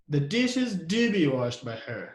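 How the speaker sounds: "do" given emphasis, falling tune after it; stress on do. Shown as a demonstration. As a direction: lean on the word "do". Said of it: "we put also the do as emphatic word".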